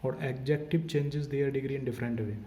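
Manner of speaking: slow, word by word, for writing down; slow dictation. Shown as a demonstration. Teacher dictating a rule for students to write, slowly. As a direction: spell it out so they can copy it. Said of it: "लिख लो".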